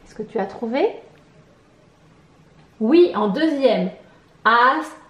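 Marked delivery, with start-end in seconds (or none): 4.4-5.0 "Aspirateur" split, pi punched after a loud as; stress on pi. Shown as a demonstration. Teacher locating pi, "Aspirateur" separated with pi stressed. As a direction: hit the second beat pi in "Aspirateur". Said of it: "À quel endroit entend-on".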